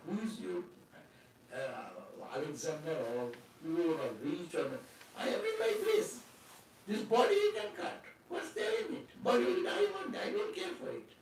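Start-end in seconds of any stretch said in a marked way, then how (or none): 5.2-11.1 high, amused dismissal with a laugh; a retold sage who shrugs off death. Sadhu mocking the king's threat.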